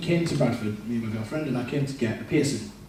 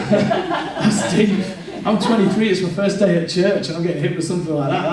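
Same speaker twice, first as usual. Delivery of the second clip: loud, high mock disbelief; comic overwhelmed protest; 4 semitones higher, 7 dB louder than usual. First day at church hit with something heavy, comic protest. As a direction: blurt it out, hammed-up and incredulous. Replays reaction louder for laughs.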